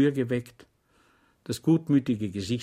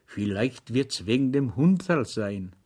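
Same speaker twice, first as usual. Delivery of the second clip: confidential. Acted. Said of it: "Und vertraulich fügte er hinzu".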